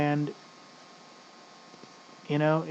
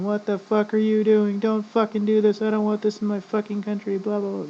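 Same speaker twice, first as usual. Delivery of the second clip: imitating angry protesters; 5 semitones higher than usual. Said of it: "people going".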